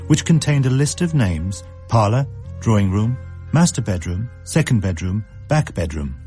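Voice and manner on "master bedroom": ordinary delivery, nothing marked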